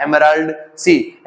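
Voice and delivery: "एमराल्ड सी" said slowly, falling at the end; slow drilled answer. Shown as a demonstration. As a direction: repeat "एमराल्ड सी" slowly for the class. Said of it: "कौन सा?". ("एमराल्ड सी" धीरे और ज़ोर से)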